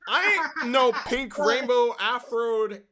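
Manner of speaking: loud, high, goofy clown voice; brash cartoon clown shouting; silly clown voice. Performing the clown character Spindles.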